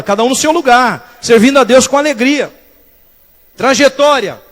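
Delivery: emphatic pulpit proclamation; forceful preaching. Acted. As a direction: preach it out firmly to the congregation.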